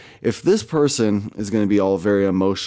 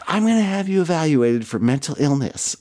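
imitating her; 7 semitones higher than usual. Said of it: "she was like".

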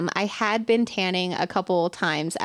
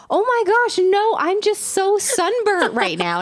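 flustered embarrassment; 12 semitones higher, 4 dB louder than usual. Retold or imitated. Flustered denial of being angry.

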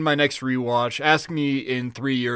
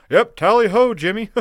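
higher, louder sarcastic reply; high mocking echo; 6 semitones higher, 5 dB louder than usual. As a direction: parrot him back with a sneer. Acting out a friend replying to Jimmy.

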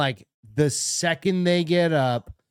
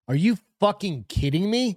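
retold outrage; 5 semitones higher than usual. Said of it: "his initial response with".

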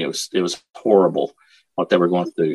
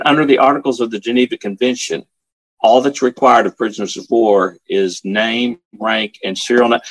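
firm, slightly raised official declaration; retold commanding sergeant, cut off at the end; bold commanding voice; 3 semitones higher than usual. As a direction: recite it boldly, as if commanding. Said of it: "with his bold, commanding voice".

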